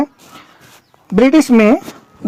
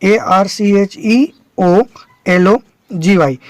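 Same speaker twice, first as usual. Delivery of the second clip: spelling letter by letter; slower than usual. Shown as a demonstration. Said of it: "तो यहाँ British ई ले लेगा".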